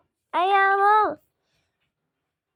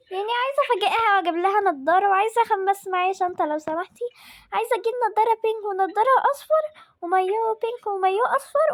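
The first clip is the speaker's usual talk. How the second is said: lightly voiced eager little girl, pitched up; a child rattling off her wish list, a bit higher; 4 semitones higher than usual. Girl asking the shop lady for goggles and swimsuits, lightly childlike.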